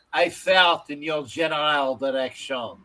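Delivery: put-on Monty Python Frenchman with a French accent. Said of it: "Was that a French accent?".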